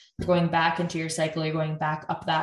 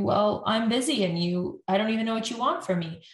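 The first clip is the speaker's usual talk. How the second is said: slightly higher, quick defensive retort; mock irritated partner firing back; defensive bickering; 4 semitones higher than usual. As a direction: brush the complaint off, a bit irritated. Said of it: "it's just the tone of voice, the rate of speech".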